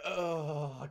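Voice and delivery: drawn-out cringing "ugh"; disgusted groan. Real, not acted. Storyteller cringing at own embarrassing story, disgusted groan. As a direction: groan with dread and distaste.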